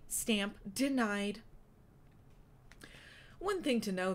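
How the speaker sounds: lightly voiced sassy drag queen narrator. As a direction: dish it out with a hint of drag queen sass. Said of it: "It sounds like an old drag queen".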